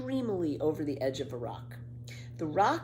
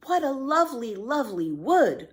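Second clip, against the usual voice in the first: delighted cry; 8 semitones higher, 5 dB louder than usual. A narrator's reading. Annika delighted by the woods, crying out in joy. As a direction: gush over the lovely wood. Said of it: "cried Annika in delight".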